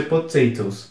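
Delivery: potatoes said like potato plus S; silent E. Shown as a demonstration. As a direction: say potatoes as "puh-TAY-tohs", no sound for the E. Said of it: "meio que você ignora a letra E".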